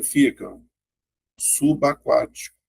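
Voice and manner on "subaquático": subaquático slowly joined as su-ba-quático; syllable division. Shown as a demonstration. Teacher showing how subaquático splits, slowly as su-ba-quático. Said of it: "então vai ficar assim".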